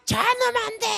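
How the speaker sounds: high, strained mock shout at the screen; desperate shout. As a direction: cry out in panic at the TV. Shouting at match on TV. (다급하게 외치는 흉내)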